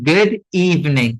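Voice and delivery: ইভিনিং said as two syllables, "eev-ning"; correct pronunciation. Shown as a demonstration. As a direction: drop the middle vowel of ইভিনিং. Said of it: "এই ইটা আমরা উচ্চারণ করব না".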